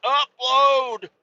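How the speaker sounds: high, loud frantic cries at the phone; panicking as the upload fails. Pretend. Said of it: "be like".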